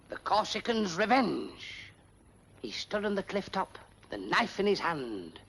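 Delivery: slow, solemn reciting of a melodramatic poem; dramatic recitation. Acted. George reciting his poem to the pals, solemnly dramatic. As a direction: declaim it like a parlour performer.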